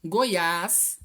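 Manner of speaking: Goiás said loud with a strong final ás; emphatic Goiás, weight at the end; stress on last syllable. Shown as a demonstration. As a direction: dictate Goiás leaning on the ás. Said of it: "também a última sílaba".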